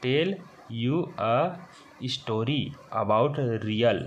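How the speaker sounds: the English sentence read very slowly, word by word; slow read-aloud. Shown as a demonstration. Teacher reading the sentence to tenth graders, very slow. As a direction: spell it out with your voice for beginners. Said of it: "इसको पढ़ेंगे".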